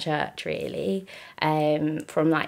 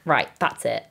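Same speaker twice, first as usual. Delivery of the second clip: firm, louder, no-nonsense husband; husband's mild mock firmness, getting louder; tough love; 5 dB louder than usual. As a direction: retell him laying it down kindly but firmly. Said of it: "he gave me some real tough love".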